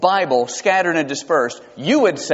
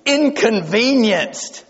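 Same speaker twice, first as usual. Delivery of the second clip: wry understatement; 5 semitones higher, slower than usual. Acted. Punchline of sermon point.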